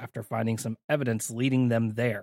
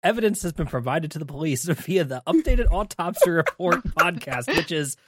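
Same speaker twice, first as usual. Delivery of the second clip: news anchor; 3 semitones higher, 3 dB louder than usual. Pretend. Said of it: "News at eleven".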